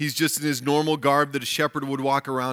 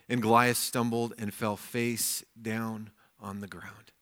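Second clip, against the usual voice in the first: measured, lower and softer reading voice; scripture reading; 4 semitones lower, 5 dB quieter than usual. A narrator's reading. Preacher reads David's reply to Goliath, measured scripture reading. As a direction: read the Bible story aloud with quiet weight. Reads the Bible story aloud.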